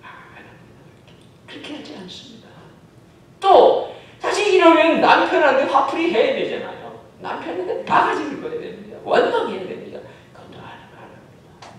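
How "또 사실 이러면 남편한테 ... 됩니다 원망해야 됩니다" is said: louder, higher sermon lines with a laugh; forceful preaching. Acted. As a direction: drive the point home. Preacher rises in emphasis. (힘주어 설교하는 목소리)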